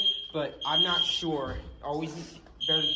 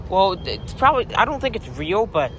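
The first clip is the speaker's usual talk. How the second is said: raised voice over a blaring alarm; louder, calling over the alarm noise; over fire alarm; 4 semitones higher, 5 dB louder than usual. Real, not acted.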